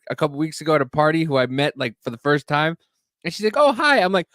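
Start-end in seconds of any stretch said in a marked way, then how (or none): 3.6-4.0 chirpy high-pitched hi; girl's high greeting. Retold or imitated. Girl from the party greeting him brightly. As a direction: play the surprised girl at the hospital.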